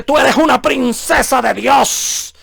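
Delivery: slow, syrupy lady-preacher voice; slow mocking imitation of a preacher telling a woman she is God's princess; mock sweet preacher. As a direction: parody a flattering televangelist, slowly. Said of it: "viene esta predicadora y le dice".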